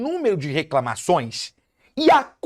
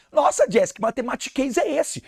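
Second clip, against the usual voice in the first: puzzled student; 5 semitones higher than usual. Acted. Voices a puzzled student's objection.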